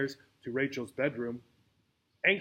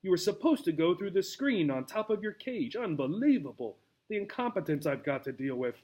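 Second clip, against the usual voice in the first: exasperated grumbling; 3 semitones higher than usual. Acted. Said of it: "groaning in exasperation".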